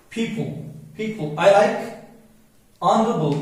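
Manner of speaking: "honorable" said "onorable", no h sound; "honorable" spoken as on-uh-ruh-bull; silent h in honorable. Shown as a demonstration. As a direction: drop the h in "honorable", slow and careful. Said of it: "ये silent हो गया".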